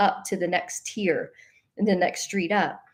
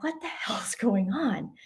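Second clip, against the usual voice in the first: laughing whisper of disbelief; 5 dB quieter than usual. Retold or imitated. Seeing horses outside at night, laughing amazed whisper.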